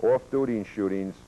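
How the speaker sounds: usual speaking voice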